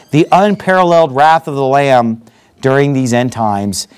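real congregational closing prayer; measured prayer, sinking low at the amen. Real, not acted. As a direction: pray aloud in a settled, earnest way.

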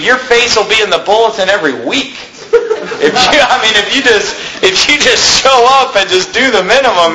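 a lightly voiced church shopper; mock churchgoer. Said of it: "I've literally heard people talk like this".

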